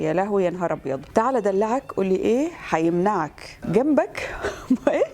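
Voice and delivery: light Egyptian dialect reading; Egyptian Arabic accent. Shown as a demonstration. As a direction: read it out in Cairene Arabic. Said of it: "باكبر عدد لهجات تقدري".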